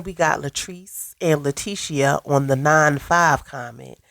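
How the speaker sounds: blocked nose, under the weather; talking through a stuffy nose. Real, not acted. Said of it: "if I sound a little stuffy".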